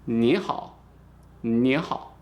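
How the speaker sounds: "Ni hao" with rising "ni" and low "hao"; repeat-after-me demo. Shown as a demonstration. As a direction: lead a class in a clear "ni hao". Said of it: "say this with me here".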